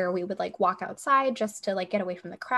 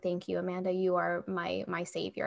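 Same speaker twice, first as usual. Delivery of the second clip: softer, slightly low retold thanks; feeble grateful thanks; 3 semitones lower, 6 dB quieter than usual. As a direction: thank your rescuer weakly. Retold weak thanks to rescuer.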